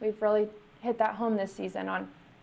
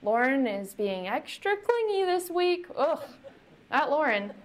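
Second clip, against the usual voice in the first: mock annoyed God; 3 semitones higher than usual. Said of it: "God sits around there and says".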